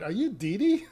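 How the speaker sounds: mock confused repeat to her friend; confused drunk lady. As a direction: echo the question back, puzzled. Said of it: "she turns around to a friend".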